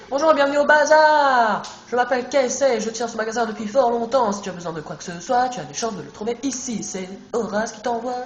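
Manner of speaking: odd shopkeeper voice. Acted. Streamer voicing the bazaar shopkeeper Casey, odd put-on voice. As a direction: greet the player as a strange, loud shopkeeper. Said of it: "Pourquoi je parle comme ça?".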